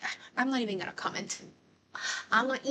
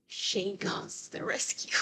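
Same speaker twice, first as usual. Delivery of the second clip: dreamy whisper; 6 dB quieter than usual. Real, not acted. Dreamy fan commentary.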